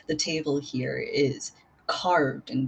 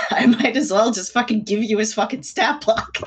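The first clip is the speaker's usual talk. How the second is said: exasperated; 4 semitones higher, 6 dB louder than usual. Real, not acted. GM exasperated at players.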